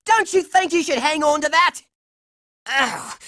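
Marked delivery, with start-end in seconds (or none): 2.7-3.2 low, weary "ugh"; frustrated groan. Acted. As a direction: groan at the setback. Frustrated groan before planning.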